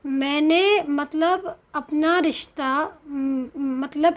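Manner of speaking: slow, halting. Real, not acted. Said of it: "मैं थोड़ा slow इसलिए बोल रही हूँ".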